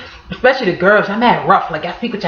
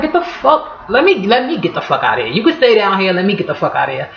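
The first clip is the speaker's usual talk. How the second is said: irritated brush-off. Retold or imitated. Brushing off the tourist.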